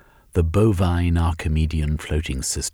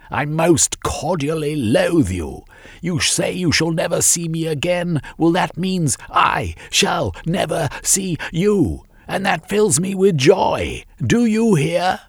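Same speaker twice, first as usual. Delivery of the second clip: defiant son shouting; 11 semitones higher than usual. A narrator's reading. Son shouting defiantly down at his mother from the airship. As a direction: fling it down at her with contempt. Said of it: "he shouted back".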